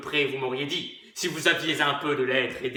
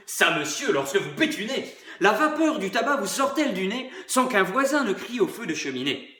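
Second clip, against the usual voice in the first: bawdy laughing jibe; hearty, coarse mockery; truculent; 3 semitones higher than usual. (truculent et rieur)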